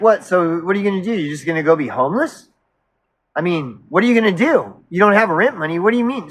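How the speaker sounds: pressing her, pitch jumping up on questions; retold incredulous questioning. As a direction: re-enact an exasperated confrontation. Acts out confronting her about rent.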